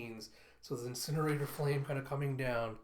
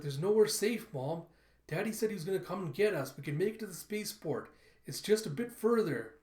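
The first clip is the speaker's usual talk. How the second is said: put-on pleading child; 5 semitones higher, 4 dB louder than usual. Baby Telsa pleads with mother.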